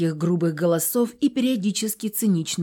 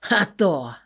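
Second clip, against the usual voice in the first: mocking snort. A narrator's reading. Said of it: "фыркнул один из них".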